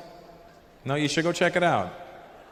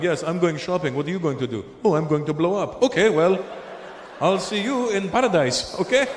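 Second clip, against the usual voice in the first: cheery casual chat in a put-on Arab accent; two Arabs chatting breezily, hammed-up Arab accent; mock Arab accent.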